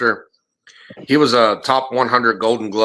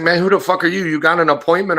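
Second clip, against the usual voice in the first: higher-pitched mock indignation; retold indignant challenge; 6 semitones higher than usual. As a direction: challenge a stranger at the door, retold. Retelling an irate man at door.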